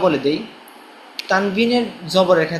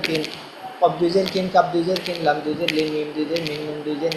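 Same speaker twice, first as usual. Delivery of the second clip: even, level-toned letter drill; spelling drill recitation; 2 semitones lower than usual. Shown as a demonstration. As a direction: recite each letter spelling to a steady beat. (একটানা সুরে বানান মশক)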